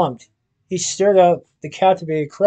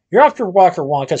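shouted; 3 dB louder than usual. Acted. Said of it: "Slugworth shouted".

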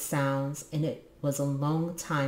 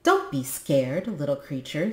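quavering voice. Acted. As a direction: try to sound brave while shaking. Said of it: "in a quavering voice".

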